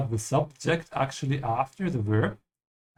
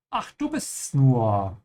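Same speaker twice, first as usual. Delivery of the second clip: game character voice; slower than usual. Acted. Teacher voicing a game character greeting the player, slow. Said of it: "I'm gonna be the voices of everybody".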